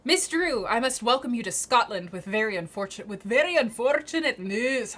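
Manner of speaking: put-on hammy, halting go at a Scottish accent; attempted Scottish accent. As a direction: read the letter in a badly faked Scottish accent. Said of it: "I don't know how to do that accent".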